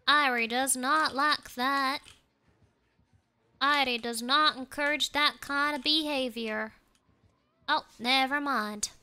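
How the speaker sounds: playful Southern twang; Southern country talk, played up; Southern accent. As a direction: put on a folksy Southern accent. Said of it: "be a Southern".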